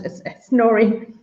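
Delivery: Noreen said slowly, starting on a clear N; correcting the name. Real, not acted. Host putting co-host right on a misheard name, Noreen said slowly with an N. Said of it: "that's my Donegal accent".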